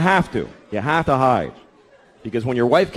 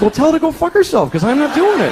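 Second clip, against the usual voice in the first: higher, louder brash comeback; retold defiant snap; mock defiant retort; 10 semitones higher, 4 dB louder than usual. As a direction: toss it off with mock bravado. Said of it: "I was like".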